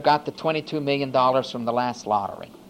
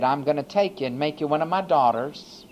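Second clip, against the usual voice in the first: tender voice of God. Acted. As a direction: speak it gently, like a father adopting a child. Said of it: "And God in his mercy said".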